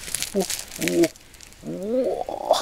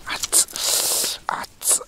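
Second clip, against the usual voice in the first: sharp yelp at the heat; too hot to touch; 3 dB quieter, much slower than usual. Real, not acted. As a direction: pull back from a burning potato. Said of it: "さすがに素手やった".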